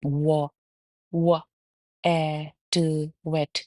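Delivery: व, ए, ट blended into वेट with rounded lips; sounding out w. Shown as a demonstration. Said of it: "होंठों को ऐसे बना रहे हैं". (डब्ल्यू की आवाज़ से वेट)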